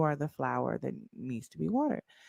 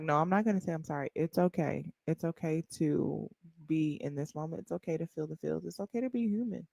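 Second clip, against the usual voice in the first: self reassurance; 7 dB quieter than usual. Retold or imitated. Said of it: "I'm like".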